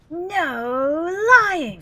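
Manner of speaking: pompous posh English narrator; posh English accent. Retold or imitated. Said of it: "in his English-ass posh voice".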